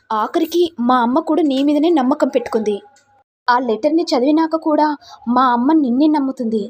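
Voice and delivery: a moderately angry husband telling his wife off. Acted. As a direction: drive her away with scorn. Husband scolds crying wife.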